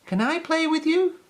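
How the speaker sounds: tag. A narrator's reading. Peppy asks the kittens.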